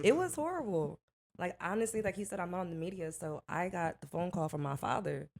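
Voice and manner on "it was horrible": raised, projected restatement; higher and firmer, now on mic. Real, not acted. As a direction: speak up clearly into the microphone. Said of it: "Talking to the mic".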